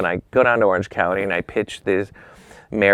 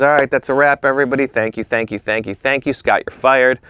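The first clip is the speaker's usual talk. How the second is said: raised, higher voice to the whole crew; calling a wrap; 4 semitones higher, 4 dB louder than usual. Retold or imitated. Boss wrapping the shoot and firing his assistant, calling out. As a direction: imitate a boss briskly announcing to the room.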